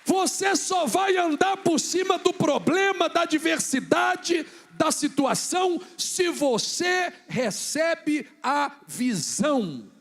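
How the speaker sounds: high, loud, slow sustained shout; full-force preaching. Real, not acted. Preacher exhorting the congregation to receive vision, slow shouted proclamation. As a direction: hammer out each phrase to the crowd.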